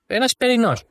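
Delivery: "Εσπερινός" lifted high and falling; stress on εσπερινός. Real, not acted. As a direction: mark "Εσπερινός" as the key word. Repeats the point emphatically. (έμφαση στο «Εσπερινός», ψηλά)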